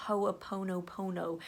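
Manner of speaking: Ho'oponopono said slowly, syllable by syllable: ho-o-po-no-po-no; carefully sounding out Ho'oponopono; Ho'oponopono, each vowel given its own beat; careful pronunciation. Shown as a demonstration. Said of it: "I'm surprised that I could even say it".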